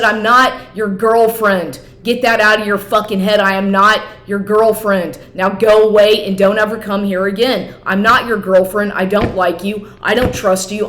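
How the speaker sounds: emphatic, heated denial; insistent retold rebuff; retold firm rejection. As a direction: lay down the law, reliving the quarrel.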